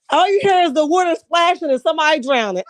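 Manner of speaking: giggling through the words; laughing. Real, not acted. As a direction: laugh while you tell it. Cracking up at the drowning scene.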